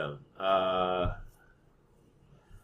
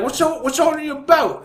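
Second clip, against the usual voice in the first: high-pitched nosy guard voice, louder; a squeaky meddling guard, louder; mock nosy guard; 5 dB louder than usual. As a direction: pester like a busybody guard, pitched way up. Retelling guards questioning.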